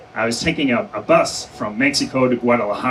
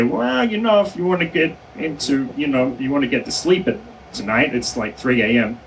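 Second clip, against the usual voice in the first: coaxing official; 2 semitones higher than usual. Retold or imitated. Official nudging a detainee to sign at three A M, coaxing. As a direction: lightly imitate a coaxing official, easing down in pitch.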